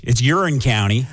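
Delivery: "Huron" without its H, like "Yur-in"; local pronunciation. Shown as a demonstration. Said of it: "You take out the H".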